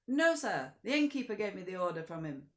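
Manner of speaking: high, loud, quick coachman; coach driver. Acted. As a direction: answer matter-of-factly. Driver answers Count.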